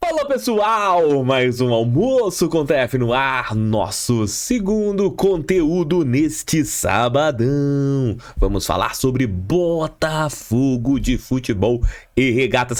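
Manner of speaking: projected radio announcer voice, very slow, drawn out. Opening the show for listeners, in a radio announcer voice. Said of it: "Aquela voz de rádio, voz impostada".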